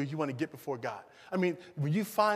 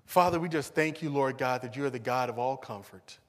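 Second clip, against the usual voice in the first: prayer; 2 semitones lower than usual. Real, not acted. Leads closing prayer.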